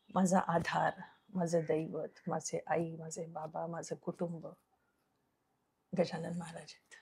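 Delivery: soft, low and tender, sinking towards a whisper; hushed devotion. Real, not acted. Devotee names Maharaj as her whole family, hushed devotion. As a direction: let the voice drop away reverently.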